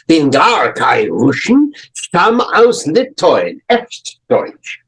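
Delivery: German words in a German accent. Shown as a demonstration. Teacher voicing the German at the next table, German accent. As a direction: voice the overheard German speaker. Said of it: "some German-speaking person at the next table".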